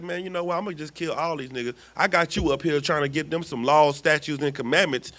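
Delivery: God venting about his people; fed-up Lord. Retold or imitated. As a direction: build from grumble to outrage. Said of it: "was like".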